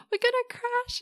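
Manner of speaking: high, loud mock scream of panic; panicked cry. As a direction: shriek it like the plane is going down. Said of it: "she's screaming".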